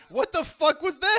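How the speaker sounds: high, loud, slow shocked yell; high stretched outraged yell. Retold or imitated. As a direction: react as if you can't believe it. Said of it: "I was like".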